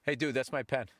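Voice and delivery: flat, casual grown-up tone; dropped businesslike voice. Retold or imitated. Kid drops the act to ask for his pen back, plain. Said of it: "Then I hear the same voice".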